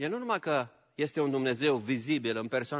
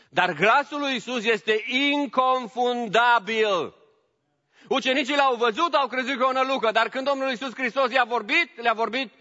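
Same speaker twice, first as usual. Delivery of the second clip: preaching; 7 semitones higher, 4 dB louder than usual. Acted. Preacher insisting to the congregation, fervent and louder. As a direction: declare it with fervor.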